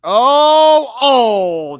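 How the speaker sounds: high, loud oh of disbelief; shocked shout. Real, not acted. Fan shouting as Argentina nearly scores. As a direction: yelp at the near goal.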